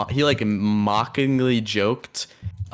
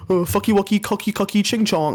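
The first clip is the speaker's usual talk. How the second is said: high, sing-song mock voice, much higher than normal; mocking baby talk; 11 semitones higher than usual. Streamer mocks banned words to his co-host in a silly high voice. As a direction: lampoon it in a silly high squeaky voice. Mocking what you can't say.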